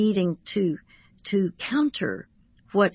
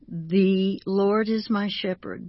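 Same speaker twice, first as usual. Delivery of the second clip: The said long as THEE, slow line; stress on The; slower than usual. Shown as a demonstration. Counselor demonstrating a calming exercise, stress on The. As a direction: draw out the word The. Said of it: "but emphasize the word the".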